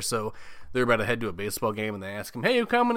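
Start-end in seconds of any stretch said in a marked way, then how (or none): 2.4-3.0 high, louder call across camp. Retold or imitated. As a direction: shout the invite up high. Campers calling to him.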